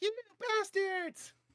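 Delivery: put-on very high, shrill, squealing tiny child's yell. Narrating a zombie's fall, then voicing a distant kid: high-pitched kid yelling. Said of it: "a little high-pitched kid yell".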